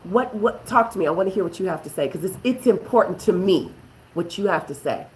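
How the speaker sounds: quiet, humble husband's plea; mature apology. Shown as a demonstration. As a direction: ask forgiveness gently, calming the fight. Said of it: "Somebody gotta get mature and say".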